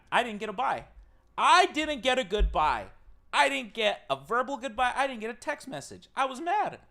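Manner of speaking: high-pitched mock outrage; playful mad. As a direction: protest to the audience, playfully indignant. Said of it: "like a playful mad".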